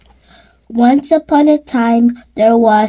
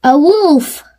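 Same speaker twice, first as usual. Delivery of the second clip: dramatic reveal; 3 semitones higher than usual. A narrator's reading.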